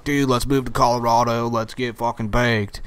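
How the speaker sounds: a hint of a country accent, mocking stoner kids. Mocking young stoners in a light country accent. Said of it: "I did that in a country accent".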